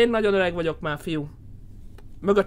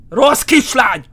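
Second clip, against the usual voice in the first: louder, sharper scolding of a bad girl; scolding shout; 2 semitones higher, 6 dB louder, slower than usual. Gamer scolding the fleeing ghost girl, loud shout. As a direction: bark it like a cross parent.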